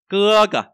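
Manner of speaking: high loud cưa, light cờ; stress on cưa. Shown as a demonstration. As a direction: lean on cưa, drop cờ. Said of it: "Trọng âm ra vào cái từ này". (nhấn cưa, lướt cờ)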